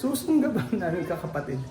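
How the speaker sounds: amused, laughing repeat. Real, not acted. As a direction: giggle through the words. Laughs while repeating their plan.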